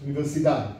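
Universidad with weight on the final DAD; Spanish pronunciation. Shown as a demonstration. Teacher repeats how it is in Spain, Spanish pronunciation. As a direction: end Universidad on a stressed DAD. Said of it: "How is it in Spain".

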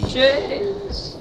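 very high desperate shout; yelling across the room. Real, not acted. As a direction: scream the name at the top of your voice. Calling teammate again.

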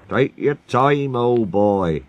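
slow, easy reassurance; calm him down gently, unhurried; mildly soothing driver. Acted. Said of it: "soothed his driver".

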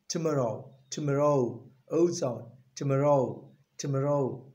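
"tomorrow" with a weak "tuh" and "oh" ending; teacher drilling "tomorrow" firmly; correct tomorrow. Shown as a demonstration. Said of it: "there's no word called to".

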